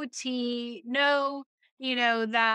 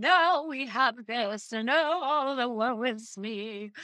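mock whiny; slower than usual. Mocking complaints about workers.

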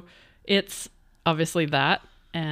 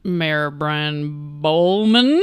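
drawn out; 4 dB louder, much slower than usual. Acted. Drawn-out pun delivery.

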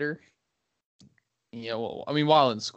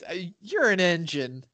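higher-pitched mock-testy retort; bickering old spouse; 5 semitones higher than usual. Old spouse sniping back, lightly mock testy. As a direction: play a peeved old partner, pitched up.

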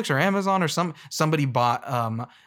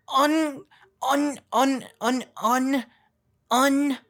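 high repeated stammer, searching for the word; hammed-up high stammering; stuck high stammer; 11 semitones higher, much slower than usual. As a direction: stutter up high, lost for words. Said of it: "say it with more emotion".

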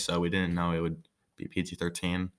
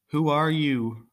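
1 stuttering fright; 8 semitones higher, 4 dB louder, slower than usual. Acted. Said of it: "Oksana stuttered".

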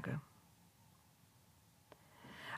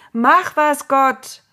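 loud, high urgent shout; raised-voice demand; calling out; 7 semitones higher, 11 dB louder, much slower than usual. A narrator's reading. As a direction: cry out an appeal to heaven. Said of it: "riefen sie".

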